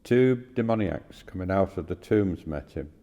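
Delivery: measured, clearly projected Bible reading; scripture reading. Acted. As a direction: read the passage aloud formally, pausing between phrases. Reads a scripture passage aloud.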